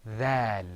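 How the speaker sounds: dhal said with lips spread back; Arabic dhal with spread lips. Shown as a demonstration. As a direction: pull the mouth corners back for dhal. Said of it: "pull the corners of your mouth back and say".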